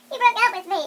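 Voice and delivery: put-on high, loud hurt girlfriend voice; upset girlfriend. Girlfriend to boyfriend after a breakup, high loud upset voice.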